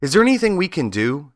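a hint of squeaky mouse. A narrator's reading. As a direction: offer help in a high little voice. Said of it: "one of the biggest mice spoke".

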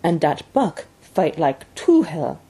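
put-on slow French-Canadian accent; broken English, drawn out with a French-Canadian accent; lightly voiced French-Canadian dog driver, slow; Francois. A narrator's reading. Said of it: "was Francois's answer".

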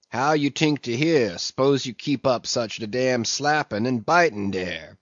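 mumbled dialect sermon to the sharks; a sullen old ship's cook preaching to sharks; mumbling old cook. Acted. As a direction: grumble it out, half to himself. Fleece's sermon voice.

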